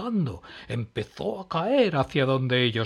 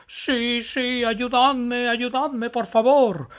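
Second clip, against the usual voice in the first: high, loud begging; desperate plea; 12 semitones higher, 8 dB louder, slower than usual. Acted. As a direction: beg for help from behind the flames. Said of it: "clamó Matías".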